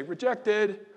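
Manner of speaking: loud high wailing call; mock leper crying out a warning; leper's holler. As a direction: cry out like an outcast leper. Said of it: "What they were required to holler?".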